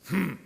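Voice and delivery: imitated grunt. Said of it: "the guy grunts".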